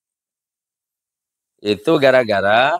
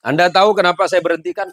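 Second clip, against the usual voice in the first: stern policeman; 3 semitones higher, faster than usual. Acted. Policeman questions Madurese driver.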